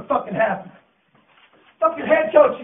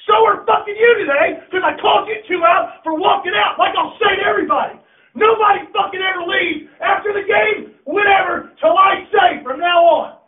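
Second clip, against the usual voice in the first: angry yell; 3 semitones higher than usual. Real, not acted. Coach ranting at seniors who walked out, angry yell. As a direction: chew them out.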